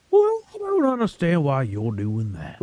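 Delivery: exaggerated Southern mockery; mocking Southern accent. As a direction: copy his accent to needle him. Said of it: "Why would you mock my accent".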